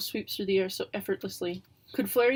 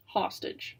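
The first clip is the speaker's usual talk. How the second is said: whisper; 3 dB quieter than usual. Acted. Skeptical whispered echo.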